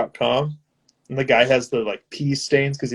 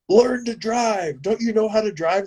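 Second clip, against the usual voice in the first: mock road rage; 8 semitones higher than usual. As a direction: drag out the scolding, pitched up. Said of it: "he's like".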